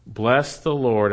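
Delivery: "Bless the Lord" drawn out slowly and emphatically; emphatic. Shown as a demonstration. Preacher quoting the psalm's last line, emphatic. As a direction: stretch "Bless the Lord" with weight on each word.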